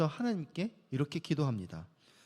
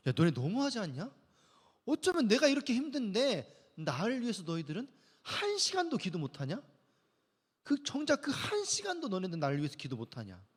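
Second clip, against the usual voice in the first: mild mock scold of sleepy disciples; a touch of annoyed rebuke; irritated scolding; 4 semitones higher than usual. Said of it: "예수님이 짜증을 내면서 화를 내시는 거예요". (졸고 있는 제자들을 꾸짖는 살짝 짜증 섞인 말투)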